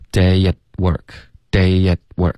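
"day at work" slowly, a clean pause after "at"; crisp stop. Shown as a demonstration. Teacher showing what natives listen for, crisp stop after "at". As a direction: cut "at" off and hold a gap before "work". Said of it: "一定要导致一个干脆的停顿".

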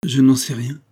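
narrated touch of fright; suddenly frightened. A narrator's reading. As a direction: deny it in sudden alarm. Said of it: "soudain effrayé".

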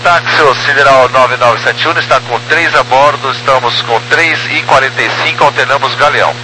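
crackly radio transmission; filtered over a two-way radio; police radio. Real, not acted. Pilot radio call to tower.

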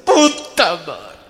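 high, loud wailing ay; hammed-up sobbing old lady; grandma's wail. Grandmother wails while hugging her grandson.

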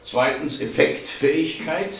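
deliberate read-out, item by item. A narrator's reading. Martin reading dictionary definitions to colleagues, read-out. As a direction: read each entry separately, lifting the endings. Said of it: "las Martin mit lauter Stimme vor".

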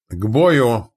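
commander's sharp shout; barked battle order. A narrator's reading. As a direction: bark out an order to the crew. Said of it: "рявкнул Фрол".

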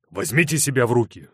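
sharp. A narrator's reading. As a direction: snap her back to order. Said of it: "резко сказал Рудольф".

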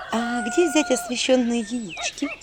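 slow, subdued glum question. Acted. Heroine glumly asking the imps about eggs. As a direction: ask it with no hope left. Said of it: "уныло спросила я".

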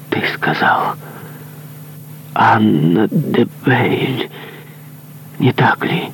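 breathless whispered question, the name slow; stunned whisper. Acted. Monk whispering the name back to the dying man in disbelief.

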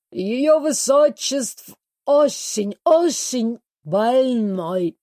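put-on slow, broken foreign-accented Russian; a dance teacher mangling Russian with a foreign accent, slowly; dance teacher with a foreign accent reports the princess is ill. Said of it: "заявил Ри Парис".

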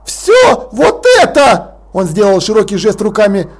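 pompous lord barking an order; growling Lord Rust. Acted. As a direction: snap the order like an outraged old aristocrat. Rust raging at Vimes.

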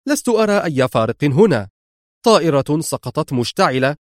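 sharp. Acted. Laura arguing with Mr X over the crash, sharp. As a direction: argue back cuttingly. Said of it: "قالت في حدة".

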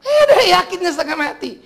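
high, loud words broken by laughter; laughing. Real, not acted. Preacher cracking up at his own joke, laughing. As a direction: laugh through the line.

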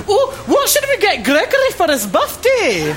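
high, loud mock Scottish accent; exaggerated Scottish impression. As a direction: put on a hammed-up Scottish voice. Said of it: "sounds really strongly Scottish".

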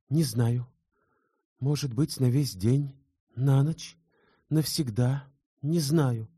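put-on a torn young woman who cannot decide; distraught young woman. A narrator's reading.

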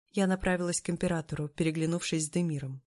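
ordinary delivery

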